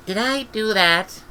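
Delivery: put-on high, slow, awed child's voice; a small girl stunned by what she did; awed little girl. Esk staring at the melted cliff, high and slow. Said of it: "Oh, she said".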